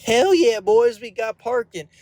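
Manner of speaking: loud, high victory cheer; excited shout. Real, not acted. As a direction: celebrate like you just won. Celebrates getting a parking spot.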